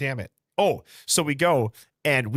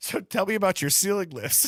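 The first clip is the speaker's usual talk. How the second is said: put-on casual, cool tone, pitched higher; 7 semitones higher than usual. Retelling a moment of panic after a bookshelf fell: imitating playing it cool. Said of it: "I played it cool".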